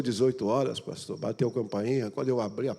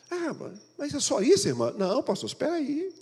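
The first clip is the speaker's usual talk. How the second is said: pitched-up questioning pastor; mock surprised pastor; high pastor voice; 12 semitones higher than usual. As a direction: ask it high and puzzled.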